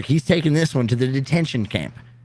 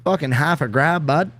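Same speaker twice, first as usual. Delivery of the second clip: higher, sing-song Canadian; hammed-up Canadian buddy; Canadian accent; 4 semitones higher than usual. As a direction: play up the Canadian bud talk. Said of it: "very goddamn Canadian sounding thing when you say it".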